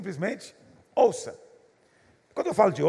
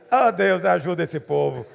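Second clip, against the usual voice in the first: mock prayer; 6 dB louder, slower than usual.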